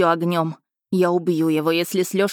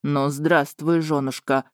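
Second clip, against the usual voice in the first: harsh dragon husband; 3 semitones lower, slower than usual. Acted. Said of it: "услышала я жёсткий голос Рейна".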